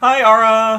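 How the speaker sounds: very high, loud, squeaky voice. Greeting a viewer by name: very high-pitched greeting. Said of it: "That was really high pitched".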